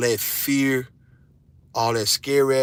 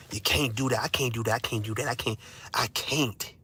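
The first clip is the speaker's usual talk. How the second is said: mocking excuses; 5 dB quieter than usual. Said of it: "I'm still hearing what y'all can't do".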